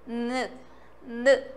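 a long humming nnn with tongue up; nasal nnn drawn out; N sound. Shown as a demonstration. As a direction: hold the N as a hum. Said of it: "e ele faz N".

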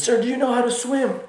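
put-on very high Bangladeshi-accented question; mock Bangladeshi accent. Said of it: "making fun of the Bangladeshi accent".

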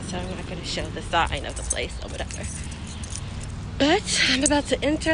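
muffled by surgical mask; through a face mask. Real, not acted. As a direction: mouth covered by mask. Seen 1: Surgical mask covers mouth throughout; slips below nose briefly, no reference mask.

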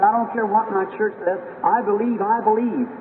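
put-on defiant sick girl. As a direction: voice the girl defying her church. Sick girl repeats her faith.

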